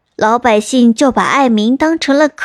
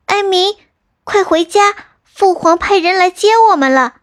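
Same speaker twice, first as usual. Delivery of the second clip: put-on higher, eager young wife's voice; young princess; 7 semitones higher than usual. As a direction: call him home brightly and urgently. Princess calls her husband home. (年轻公主催丈夫回家，声音高而急切)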